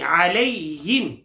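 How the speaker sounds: علیہم with a soft, short ya; علیہم recited softly without lengthening; soft unstretched ya. Shown as a demonstration. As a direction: say the ya in علیہم gently, don't stretch it. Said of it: "نرمی سے پڑھیں گے ... کھینچیں گے نہیں".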